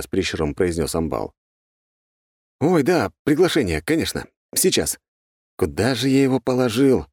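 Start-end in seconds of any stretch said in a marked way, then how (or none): 2.6-7.1 high, fluster-acted searching; feigned confusion. A narrator's reading. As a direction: pretend to have lost it. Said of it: "Растерянно похлопал я по карманам". (наигранная растерянность)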